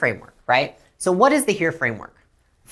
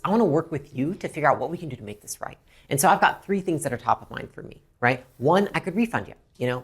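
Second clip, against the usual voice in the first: calm reassurance; 3 semitones lower than usual. Shown as a demonstration. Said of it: "work with the customer to resolve".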